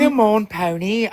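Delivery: slow, drawn-out mock Australian accent; mimicked Australian accent. Host impersonates Pony to coax her, mock Australian accent. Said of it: "I'm impersonating you".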